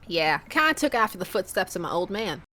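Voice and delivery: lightly put-on Southern accent; fake Southern accent. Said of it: "my atrocious fake X-Men nineties cartoon level accent".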